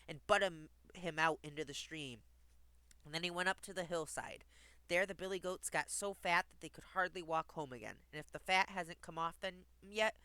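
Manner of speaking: measured storybook reading; lilting fairy tale narration; story narration. Acted. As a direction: read a rhyming tale aloud clearly.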